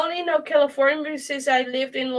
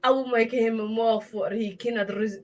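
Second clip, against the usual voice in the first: botched New York accent, breaking off; badly faked New York accent; attempted New York accent; 3 semitones lower, 4 dB quieter than usual. Shown as a demonstration. Guest trying the accent for friends, shaky New York accent. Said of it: "I cannot do the fucking New York accent".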